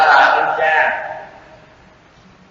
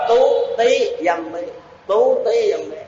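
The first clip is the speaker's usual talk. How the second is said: "Tú Tí Dâm Bí" in a higher Khmer accent; Khmer reading; 4 semitones higher, 4 dB quieter, slower than usual. Shown as a demonstration. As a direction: imitate a Khmer reader saying "Tú Tí Dâm Bí". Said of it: "Nếu mà người Khmer họ đọc là".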